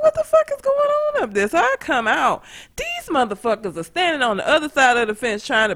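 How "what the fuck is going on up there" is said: yelling out at the dogs' commotion; mock yell. Owner yelling from inside at barking. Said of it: "I'm like".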